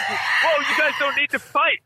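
imitating alarmed driver. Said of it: "Whoa, it's like".

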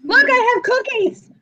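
high, silly tempting voice; playful luring. Acted. Fan tempting wrestler with treats, playful coaxing. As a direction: dangle treats in a put-on high voice. Continues the cookie-luring bit.

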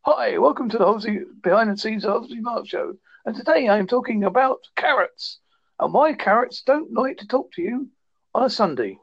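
lightly hammed-up presenter welcome; mock podcast host. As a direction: play the chirpy host of a silly web show. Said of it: "And I do just stuff like".

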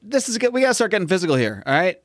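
lightly acted indignation; mock mad. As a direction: play a boyfriend getting worked up, pitch climbing. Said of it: "he's getting all mad".

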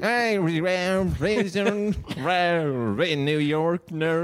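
high, very slow New York impression; shitty New York impersonation, laughing; New York accent. Shown as a demonstration. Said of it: "do a New York fake accent".

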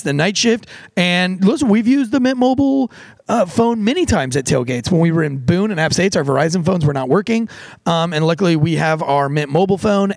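casual host-read sponsor ad. Acted. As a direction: sell the deal, upbeat.

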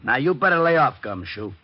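loud and high, warning him off; gruff warning. Acted. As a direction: bark it as a threat. Sergeant threatens Diamond.

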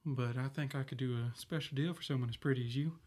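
put-on quiet conspiratorial boy; hushed. Boy clerk offers secret deal.

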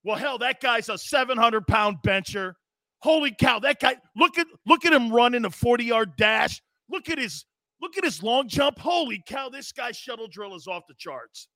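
lightly voiced gushing scout; mock scout. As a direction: gush over the stats like a starstruck scout. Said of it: "walk into a weight room and go like this".

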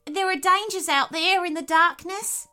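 high-pitched nervous animal voice. A narrator's reading. Nervous potoroo warning Mia of dangers outside, nervous and high. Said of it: "said the nervous Potteroo".

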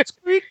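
imitated little squeak; squeak sound effect. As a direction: mimic a squeaky sound effect through laughter. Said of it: "it was the sound effect".

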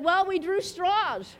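slow, lightly acted explanation; matter-of-fact wife. Wife explaining to the neighbor, slow lightly acted answer. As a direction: draw it out slowly as the wife explaining.

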